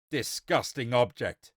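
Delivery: loud, slow exclamation of disgust; disgusted cry. Acted. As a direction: cry out in revulsion, drawing it out. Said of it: "he cried".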